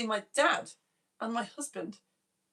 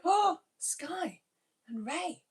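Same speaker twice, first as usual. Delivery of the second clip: gasping "Oh, Sky" in a high voice; a breathless thrilled oh; delighted gasp; 7 semitones higher, much slower than usual. Real, not acted. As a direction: gasp with joy at the name. Gasps at chat names.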